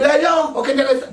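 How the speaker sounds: a touch of mock scolding; imitated criticism. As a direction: briefly mimic someone criticising, pitch lifted. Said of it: "Asala kritika".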